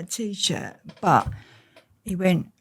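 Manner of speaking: normal talking voice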